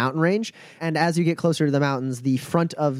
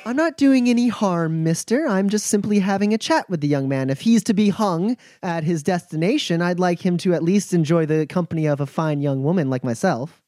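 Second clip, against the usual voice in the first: put-on higher, coy young woman; 4 semitones higher than usual. Woman to the lawman, coy and higher. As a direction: brush off the lawman sweetly.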